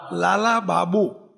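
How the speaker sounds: લાલા બાબુ slowly, every syllable clear; spelled-out name. Shown as a demonstration. Preacher to the audience, slowly saying the name લાલા બાબુ. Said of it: "બાપુ નહીં હો".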